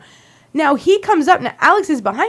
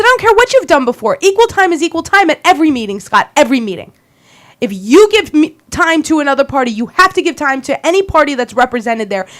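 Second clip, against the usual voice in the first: yelling back; 3 dB louder than usual. Retold or imitated. To Scott at the meeting, fast heated yelling back. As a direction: fire it back at him in a rush. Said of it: "I'm yelling right back at him".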